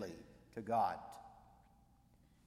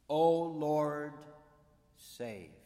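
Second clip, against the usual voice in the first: crying out to God; 3 semitones higher, 8 dB louder, much slower than usual. Retold or imitated. Quoting the people's cry to God.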